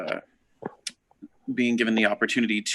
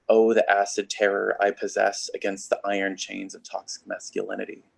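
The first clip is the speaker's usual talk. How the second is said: measured spoken-word poetry reading; poem recitation. Acted. Poet reading to an audience about gay lives throughout history, poem recitation. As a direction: read the poem out with steady, deliberate phrasing.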